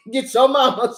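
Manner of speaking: laughing while repeating the warning. Retold or imitated. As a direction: say it through laughs, half-joking.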